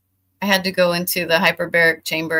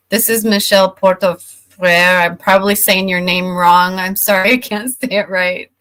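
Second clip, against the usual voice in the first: speech thickened by a swollen tongue; 6 dB louder than usual. Real, not acted. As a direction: talk around a swollen tongue. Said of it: "My tongue is still swollen".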